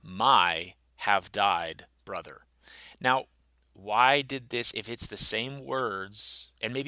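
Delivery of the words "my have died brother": word-by-word literal reading. Shown as a demonstration. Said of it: "we won't translate that".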